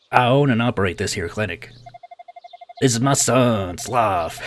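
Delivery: lightly voiced genial Southern doctor; Southern clinic owner. Clinic owner greets his waking patient, light Southern accent. Voices Bluto in game dialogue.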